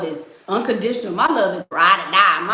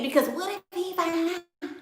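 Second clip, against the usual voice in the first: scared woman; 9 semitones higher, 5 dB quieter than usual. Retold or imitated. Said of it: "y'all out here getting mistreated".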